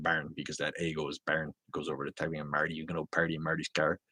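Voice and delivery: light northern accent with fronted A in "barn"; upstate New York accent. Shown as a demonstration. Accent fan showing how relatives say barn, upstate New York accent. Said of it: "they have a real unique accent".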